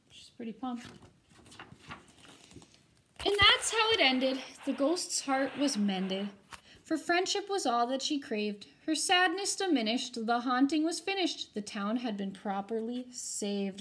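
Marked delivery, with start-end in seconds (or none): 3.2-13.8 put-on lively rhyming read-aloud for kids; storybook reading. A narrator's reading. Teacher reading a rhyming ghost story to her students, animated. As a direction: read it to the class with bounce and drama.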